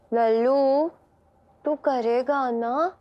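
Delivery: slow, cute coaxing; cute, drawn-out wheedling; cute pleading tone. Acted. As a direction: ask sweetly and slowly, to win a favour. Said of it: "इतनी cute वाली tone में बोलेगी".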